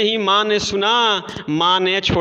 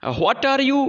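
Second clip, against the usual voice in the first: angry mother; 7 semitones higher, much slower than usual. Acted. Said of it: "said she".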